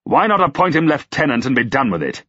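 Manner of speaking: high-pitched, sarcastic outrage; incredulous lord, pitch riding high; indignant tirade. A narrator's reading. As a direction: rail in disbelief at the suggestion.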